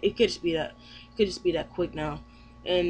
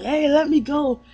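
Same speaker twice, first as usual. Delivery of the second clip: Luffy; 8 semitones higher, 7 dB louder than usual. Retold or imitated. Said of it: "Luffy's trying to say".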